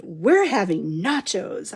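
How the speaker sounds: replaying her own gushing line slowly and proudly; mock proud announcement. To her viewers, re-enacting her own proud nachos announcement, slow and pleased. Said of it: "I can't believe I just said that the way I said it".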